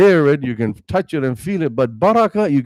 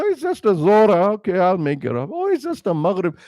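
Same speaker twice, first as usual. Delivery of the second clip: mock careless brush-off; 5 semitones higher than usual. Mocking careless believer's excuse.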